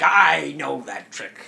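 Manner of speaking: Argomon's retort. Acted. Player voicing Argomon facing a familiar attack, slow and loud. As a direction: draw it out loudly as the creature. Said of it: "He's like".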